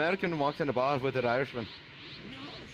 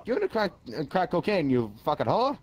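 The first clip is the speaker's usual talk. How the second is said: faltering Black American accent attempt; 3 dB louder than usual. Comedian failing to do it on request, faltering Black American accent. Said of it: "no, I can't do it".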